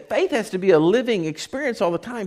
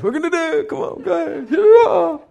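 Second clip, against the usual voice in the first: high-pitched, hammed-up rallying call; mock-gung-ho cheer rising to a shout; Joshua; 10 semitones higher, 5 dB louder than usual. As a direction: rouse the troops with put-on confidence. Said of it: "he gets out and says".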